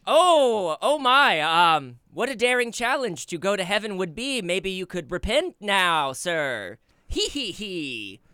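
high, loud devil with a slow cackle; unhinged villain. Acted. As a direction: tease like a gleeful devil. Devil taunts the survivor.

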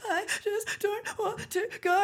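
wailing it through tears; sobbing. Retold or imitated. Leaving for the airport, crying to her friend, high and slow. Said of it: "I'm sobbing uncontrollably".

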